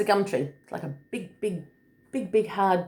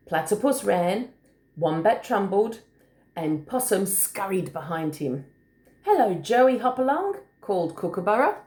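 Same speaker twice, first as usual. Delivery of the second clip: put-on story reading to children; 3 semitones higher than usual. A narrator's reading. Adult reading a picture book to a small child, lilting. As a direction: read it like a picture book, singsong on the hops.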